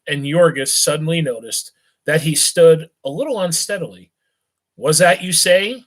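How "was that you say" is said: put-on a higher, slurred query from a tipsy young man; lightly voiced drunk, thick in the throat; thick drunken voice. Young drunk blurts a question at a beggar, thick-voiced. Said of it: "he queried suddenly in a thick voice".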